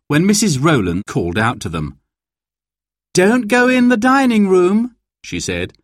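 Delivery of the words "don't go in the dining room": put-on high-pitched call to the children. A narrator's reading. Neighbour stops children entering the room, calling out high.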